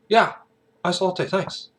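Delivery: high-pitched imitation Aussie reply; Aussie customer. Aussie regular confirming his coffee order, imitated Aussie accent. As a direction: answer in a mock Aussie accent. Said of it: "we had a Aussie married couple".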